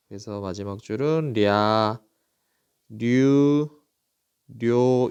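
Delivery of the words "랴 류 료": 랴, 류, 료 each held long on a steady note, rya, ryu, ryo; syllable demonstration. Shown as a demonstration. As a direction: teach 랴, 류, 료 one by one with pauses. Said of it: "이렇게 읽습니다".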